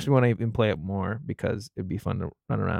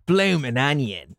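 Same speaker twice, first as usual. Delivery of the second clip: slow, put-on Australian twang; mock Australian accent, drawn out; 3 semitones higher, slower than usual. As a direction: stretch it out like an Australian advert. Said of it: "my Australian accent".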